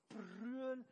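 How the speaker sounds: loud sudden shout; cry out. Acted. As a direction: bellow the word. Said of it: "brüll um deine Situation". (lauter Ausruf)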